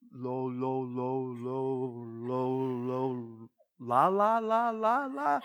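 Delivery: put-on halting baby-talk syllables; baby babble. New believer babbling lo lo la la. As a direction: babble like a toddler trying to speak. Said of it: "And I talked like a baby".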